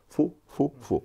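faux, faux, faux, pitched high and hammered; high, insistent refusal; emphatic denial. Real, not acted. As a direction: shoot the claim down hard, word by word. Flatly rejecting "impossible in Russia.

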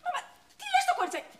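high, loud spluttering protest; scandalised outburst; indignant. Acted. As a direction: leap in to defend someone, exasperated. Scolds woman pressing the girl.

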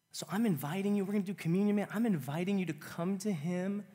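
high, loud pleading invitation; urgent altar call; fervent invitation. Real, not acted. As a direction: call them forward with passion.

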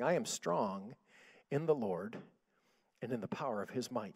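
low, subdued talking voice; conversational tone. Retold or imitated. Recovering sister sitting up in bed, quiet conversational tone. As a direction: say it quietly and evenly, in pieces. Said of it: "in a conversational tone now".

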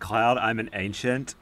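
drawn-out solemn announcement; slow dramatic reveal. Acted. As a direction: say it slow and grave. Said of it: "it just feels like".

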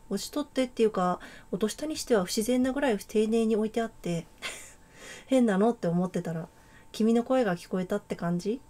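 落ちとって tried again with a guessed Kansai intonation; a hesitant amateur Kansai lilt; Kansai accent. Acted. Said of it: "関西弁ってどういうイントネーションだ？". (手探りの関西弁イントネーション)

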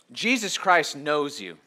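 usual speaking voice

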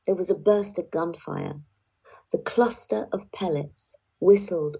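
expressive book reading for the listeners; reading aloud. Shown as a demonstration. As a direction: read the passage like audiobook narration. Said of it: "read the bullets line".

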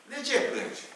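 a gardener asking why she weeps; gardener asking gently. Retold or imitated. Acts the gardener asking Mary.

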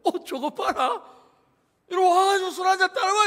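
a tipsy king ordering his queen to pour wine; drunk king. Retold or imitated. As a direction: slur a drunk king's command. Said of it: "왕이 술 취해가지고".

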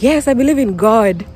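put-on plainly African-accented reply; Kenyan accent. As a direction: answer in her own Kenyan accent. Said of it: "I'm here, I'm like".

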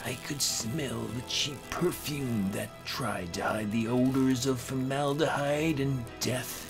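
ordinary delivery, nothing marked

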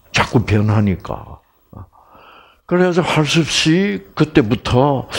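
ordinary delivery

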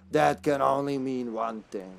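slow, raspy Spanish character. Acted. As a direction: read it out slowly in a raspy Spanish voice. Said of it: "My, my raspy Spanish voice will get to me".

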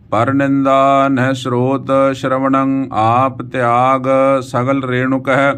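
slow, sustained Gurbani reading; measured verse chant on an even pitch; scripture recitation. Acted. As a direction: recite with long drawn vowels.

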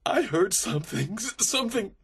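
high, stammering fear; terrified prisoner. A narrator's reading. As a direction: falter in terror over the words. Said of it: "face was white with terror".

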